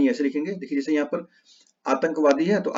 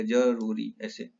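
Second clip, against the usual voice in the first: slow spelling demo; 3 semitones lower, 4 dB quieter, much slower than usual. Shown as a demonstration. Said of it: "यहाँ पे ज पे रहेगा".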